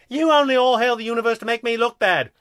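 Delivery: high, loud aggrieved comeback; indignant retort. A narrator's reading. Second alien accusing his partner, indignant. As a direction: throw it back high and loud.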